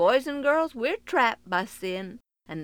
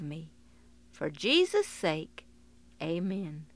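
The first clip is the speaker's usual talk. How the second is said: prayer. Acted. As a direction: pray it gently from the heart. Leads a sinner's prayer.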